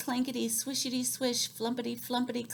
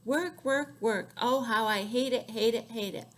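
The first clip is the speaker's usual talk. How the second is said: put-on grumbling old woman; 4 dB louder than usual. Old woman complains about knitting.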